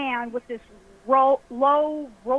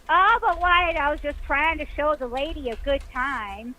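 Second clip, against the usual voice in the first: Ike Clanton's nasal whine. Retold or imitated. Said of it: "very up high in his nose".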